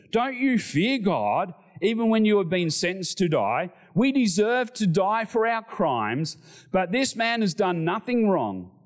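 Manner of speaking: protesting criminal. Acted. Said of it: "the other criminal protested".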